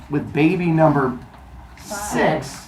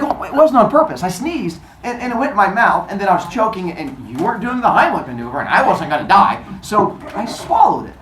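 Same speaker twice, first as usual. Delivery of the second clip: higher flustered excuse; 4 semitones higher than usual. Retold or imitated. Kronos makes excuses.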